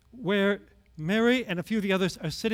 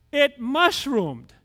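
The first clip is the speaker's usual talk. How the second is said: laughing; 6 semitones higher, 6 dB louder, much slower than usual. Real, not acted. Plan growing out of control.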